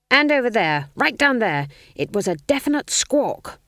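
put-on insistent old witch. A narrator's reading. Granny insists.

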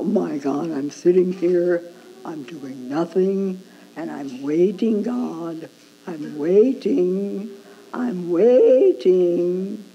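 slow, bored mock sigh of waiting; lightly mocked passive sitter. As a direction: drag it out like someone idly waiting. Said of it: "It's not just being passive".

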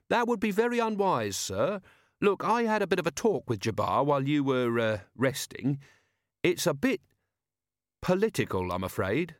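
put-on eager polite young watchman; Carrot's voice.

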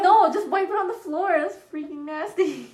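disgusted yell. Retold or imitated. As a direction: shout it away in disgust. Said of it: "I'm like".

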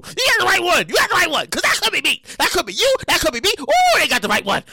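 hyped catchphrase chant; excited. Acted. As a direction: keep hyping it.

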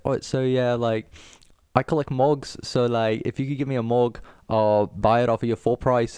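a coworker's British accent, done badly. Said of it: "he has, like, a really soft voice".

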